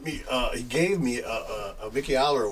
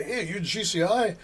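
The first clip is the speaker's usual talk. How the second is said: higher-pitched eager question; eager retold greeting, pitched up; excited recognition; 7 semitones higher than usual. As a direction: imitate someone spotting a local celebrity.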